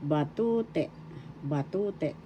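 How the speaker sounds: long stressed TU in "Batute"; stress on second syllable. Shown as a demonstration. Teacher showing learners how it's pronounced, TU stressed in "Batute". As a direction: say each "Batute" leaning on TU. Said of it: "second syllable is where the accent is".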